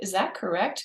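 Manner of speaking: curious, inquisitive tone. A mediator showing the curiosity in their voice: curious question tone. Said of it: "Do you hear the curiosity in my voice".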